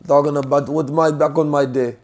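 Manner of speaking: put-on loose, joking Ghanaian accent; a rough Ghanaian accent. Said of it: "That was terrible Ghanaian accent".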